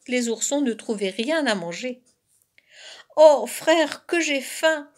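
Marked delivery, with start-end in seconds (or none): 3.2-4.9 higher hungry moan, lightly acted; mildly whining little bear cub; gémissement affamé. A narrator's reading. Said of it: "gémissait le plus jeune des oursons". (gémissement plaintif d'ourson affamé, un peu joué)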